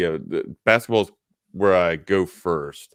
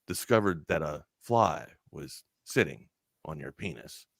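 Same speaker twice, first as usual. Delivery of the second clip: deadpan Jack Handey. Retold or imitated. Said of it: "my Jack Handey".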